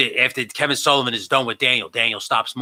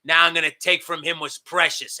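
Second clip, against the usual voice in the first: slow, raised angry villain voice; Kevin Sullivan; 5 semitones higher than usual. Retold or imitated. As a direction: order him away, drawn out and menacing. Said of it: "And he goes".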